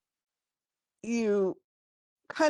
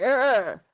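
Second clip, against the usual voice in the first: orc cheer; 4 semitones higher, 4 dB louder than usual. Acted. Orcs cheer approvingly.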